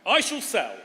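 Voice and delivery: bright, punchy auction calling; auctioneer. Acted. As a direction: sell it to the room, bid by bid. Auctioneer calling final bids.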